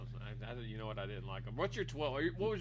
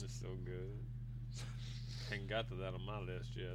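sassy Southern lawyer; 9 semitones lower, 10 dB quieter than usual. Pretend. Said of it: "Why are you a sassy Southern lawyer right now?".

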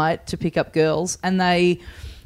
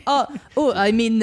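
higher, hesitant stammer, playing flustered; caught-out fumbling; 4 semitones higher than usual. Friend caught without his fake accent, flustered stalling. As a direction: stall for an excuse, mock flustered.

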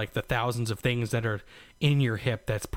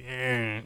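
put-on begrudging baby cry. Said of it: "really begrudgingly trying to cry".

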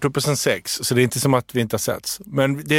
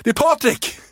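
very high excited mock voice; mascot's eager voice; 12 semitones higher than usual. Costumed old classmate revealing himself to Erik, very high and eager. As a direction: squeal the name out happily. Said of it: "treåröret bara".

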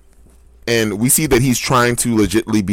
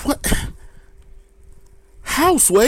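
disbelieving; slower than usual. Real, not acted. Disbelieving quote reaction.

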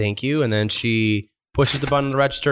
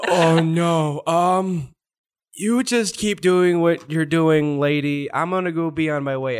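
slightly higher, drawn-out awkward excuse; lightly voiced employee; 4 semitones higher, slower than usual. Employee excusing himself from a customer he recognizes, lightly voiced and awkward. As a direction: lightly play a worker backing away. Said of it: "turns around and goes".

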